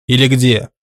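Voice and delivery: reluctant echo. A narrator's reading. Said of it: "неохотно отозвался тот".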